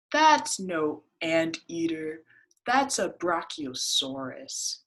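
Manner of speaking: rabbit voice. Acted. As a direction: correct it knowingly.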